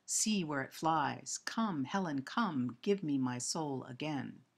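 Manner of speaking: measured, slow verse reading; poem recitation. Acted. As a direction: recite the blank verse deliberately, pausing between phrases. Lecturer reads verse aloud.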